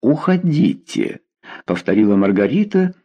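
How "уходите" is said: slow, mock-stern dismissal; a touch of put-on anger; feigned anger. A narrator's reading. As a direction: pretend to be cross as you send him off. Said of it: "делая вид, что сердится".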